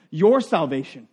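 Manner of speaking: "Your" leaned on as the key word; "Your" stressed over "salvation". Shown as a demonstration. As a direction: put the weight on "Your". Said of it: "what was the key word in that".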